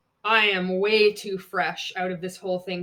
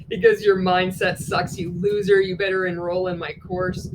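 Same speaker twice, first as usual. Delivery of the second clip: 1 mock upline pitch; 6 dB louder than usual. Mocks MLM upline pitch.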